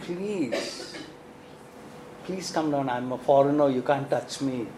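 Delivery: soft, low imitation of Ruth's sweet reply; sweet pleading. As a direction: plead gently and quietly, lightly acted. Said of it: "How sweetly she says".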